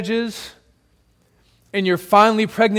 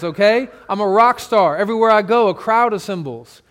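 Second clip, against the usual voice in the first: mock arrogant Jesus; 2 semitones higher than usual. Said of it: "He doesn't say".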